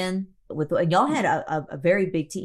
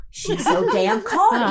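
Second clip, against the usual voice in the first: slow, louder, laughing through it; amused exasperation, slow and laughing; laughing disbelief; 4 semitones higher, 4 dB louder, much slower than usual. Retold or imitated. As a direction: marvel at her calm through laughter. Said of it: "And I was like".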